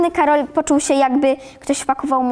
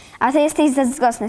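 usual speaking voice

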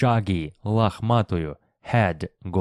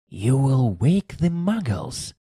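hissed out, a little higher pitch; 5 semitones higher than usual. A professor shushes a companion who just howled, hissed. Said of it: "Hissed Professor McGonagall".

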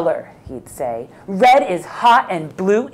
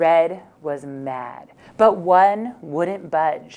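plain

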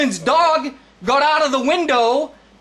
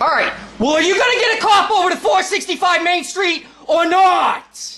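heated, angry hollering, mildly yelled; 4 semitones higher than usual. A caller demanding that a cop be sent to an address, yelling. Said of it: "You're yelling".

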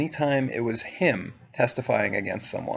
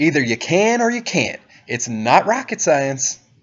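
raised, pitched-up, yelled voice; 5 semitones higher, 7 dB louder than usual. Retelling how the interrogator answered with a raised voice: imitating a raised voice. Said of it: "raises his voice and goes".

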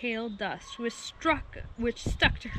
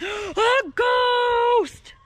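very high, loud, shrieking scream; 12 semitones higher, 9 dB louder than usual. Narrator reads the animals' cry on seeing a ghost; screaming. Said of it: "The animals screamed".

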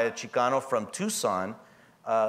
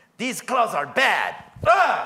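very high, very loud broken English with swooping pitch; 10 semitones higher, 7 dB louder than usual. Retelling her throwing down clothes at a store counter: imitating her terrible English. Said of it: "in her terrible English".

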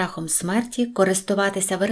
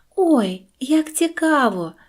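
sudden, pitched-up exclaiming cry; 6 semitones higher than usual. A princess, finding an old woman spinning, exclaims to her: exclamation. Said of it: "вигукнула дівчина".

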